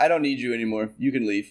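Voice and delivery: put-on deadpan, flat little-kid voice. The speaker retells a three-year-old girl dismissing them while playing: retelling a deadpan remark. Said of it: "Deadpan looks at me and goes".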